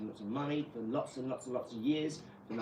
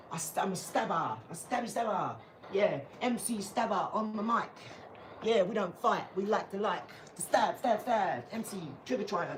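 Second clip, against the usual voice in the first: higher mock gangster-teen bravado; mock roadman; 4 semitones higher than usual. Mocking teens who pose with gun signs, higher hammed-up roadman voice. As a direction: lampoon a wannabe knife-crime kid boasting. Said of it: "I talk to my mums like this".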